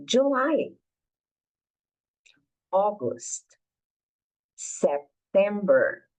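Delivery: each month said slowly with a pause after; teacher drilling the months, slow and clear; slow model for repeating. Shown as a demonstration. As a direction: model January to December for students to repeat.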